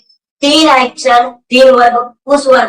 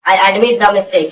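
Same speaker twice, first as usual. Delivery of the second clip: slow model answer; much slower than usual. Shown as a demonstration. Teacher models answer for class.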